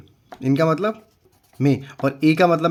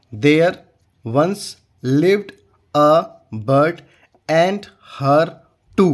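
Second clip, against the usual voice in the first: slow and a bit louder, each word set apart; slow model reading; 3 dB louder, much slower than usual. Shown as a demonstration. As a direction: read the line word by word for the class. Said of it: "कैसे पढ़ेंगे".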